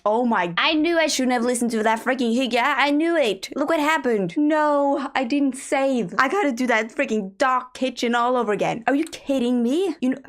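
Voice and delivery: high, agitated complaining; high-pitched real frustration; exasperated. Real, not acted. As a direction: wail in disbelief at lost work. Game crashed, unsaved work lost.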